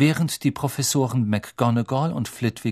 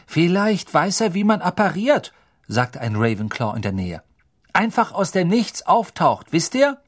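higher, louder excited schoolboy guess; eager student; 6 semitones higher, 4 dB louder than usual. Acted. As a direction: blurt out the theory eagerly. Ravenclaw student speculates.

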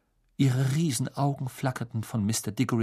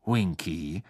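friendly; 4 semitones lower, 3 dB quieter than usual. A narrator's reading. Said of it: "sagte er freundlich".

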